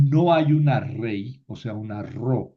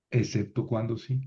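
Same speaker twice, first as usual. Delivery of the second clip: chuckle, then repeat it lightly; small laugh leading into the words; amused chuckle; 5 dB quieter than usual. Real, not acted. Teacher qualifies a rule with its exception, chuckling.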